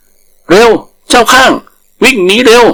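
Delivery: high panicked shout. Acted. Tiger yelling at the langur to flee, high panicked shout. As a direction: scream at your friend to run. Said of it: "พร้อมกับตะโกนว่า".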